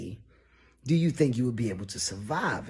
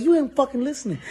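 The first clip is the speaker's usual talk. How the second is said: high, loud, furious; angry yell; 12 semitones higher, 6 dB louder, much faster than usual. Retold or imitated. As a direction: shout him down. Drunk argument on plane.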